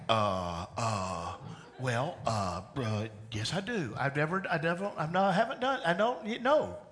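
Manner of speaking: hesitant, stumbling uhs, then rising to a panicked no; flustered stammer. Retold or imitated. Person asked to lead prayer at dinner, flustered stammering. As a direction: fumble for words, caught off guard. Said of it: "And you're like".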